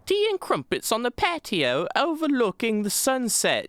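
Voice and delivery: high-pitched, hammed-up posh British; posh British accent. Gamer showing how Thalmor should sound, hammed-up posh British accent. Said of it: "That kind of accent".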